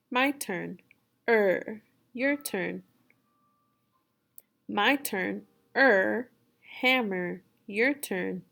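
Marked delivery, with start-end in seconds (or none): 1.3-1.8 "er" held out as one r-coloured vowel; modelled letter sound. Shown as a demonstration. Teacher taking a turn on the E R sound, modelled. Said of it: "you will say er". 5.8-6.3 "er" held long and louder; modelled letter sound. Shown as a demonstration. Teacher taking a turn on the E R sound, modelled. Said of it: "you will say er".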